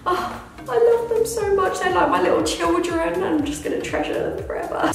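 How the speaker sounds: high, cooing affection fading at the end; squeaky-high tenderness; adoring gush. Real, not acted. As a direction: coo over them like babies. Gushing over her own palette.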